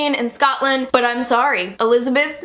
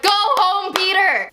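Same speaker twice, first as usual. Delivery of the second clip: higher-pitched, mock-urgent plea; urgent fan plea; 6 semitones higher, slower than usual. Fan begging Peter to go home, mock-urgent. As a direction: plead with the hero to leave. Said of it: "And I'm like".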